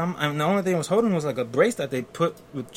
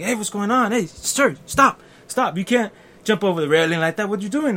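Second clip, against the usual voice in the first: loud, high guard calling out; a mildly loud guard shouting stop; security guard; 5 semitones higher, 4 dB louder than usual. Retold or imitated. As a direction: stop him like a guard on skates. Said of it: "he's like".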